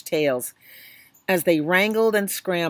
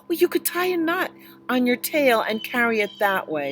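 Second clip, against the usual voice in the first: put-on slightly raised, helpful child's voice; lightly voiced little boy; 6 semitones higher than usual. Little boy suggesting the tiger tie the umbrella to its tail. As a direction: offer the idea brightly.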